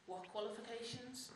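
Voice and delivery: blank, drawn-out query; baffled echo. Acted. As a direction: repeat it slowly, not understanding. Jobseeker baffled by adviser's question.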